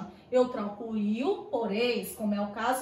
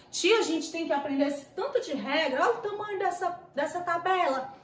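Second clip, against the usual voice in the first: higher-pitched mock pupil grumble; complaining pupil; 5 semitones higher, faster than usual. Pupil complains to teacher about so many rules, mock whine. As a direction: lightly play a schoolkid protesting the workload.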